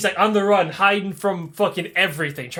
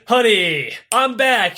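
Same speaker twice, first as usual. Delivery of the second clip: cheery homecoming; 4 semitones higher, 5 dB louder, slower than usual. Retold or imitated. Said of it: "He's like".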